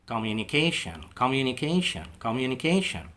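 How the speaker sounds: communication repeated slowly, every syllable clear; model pronunciation. Shown as a demonstration. Teacher drills communication for learners, clear and careful. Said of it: "الفعل التاني اللي هو يتواصل".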